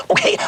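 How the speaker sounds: word squeezed between engine splutters; a talking car coughing and spluttering; sputtering car character. Retold or imitated. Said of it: "in this particular character, it was".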